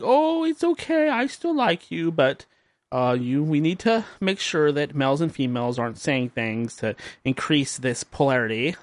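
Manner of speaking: a hint of a preachy woman; mocking her voice. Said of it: "And she was like".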